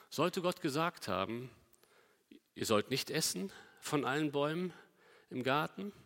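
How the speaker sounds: innocent-sounding question, rising at the end of each phrase; just asking, softly and tentatively, with pauses; feigned innocence. Acted. The snake casually questioning Eva about God's word, feigned innocence. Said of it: "die Schlange tut am Anfang sehr unschuldig".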